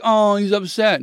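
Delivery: imitated cooing sympathy; mock sympathy. Dad mimicking someone pitying his crying son, mock sympathy. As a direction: pretend to feel sorry for the poor kid.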